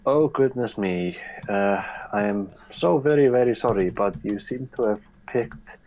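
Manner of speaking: lightly put-on Icelandic accent, polite and apologetic; a faint Icelandic accent, fussing with apologies; mock Icelandic accent. Player's character apologizes to tourists in mock Icelandic accent. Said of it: "I'll keep my shitty Icelandic accent".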